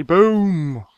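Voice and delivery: loud, high, drawn-out boom; triumphant exclamation. Real, not acted. Guide celebrates finishing the quest, triumphant exclamation. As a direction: punch it out high and let it fall.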